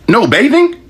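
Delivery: high, slow disbelieving repeat; incredulous repeat. Real, not acted. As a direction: echo the rules like they're absurd.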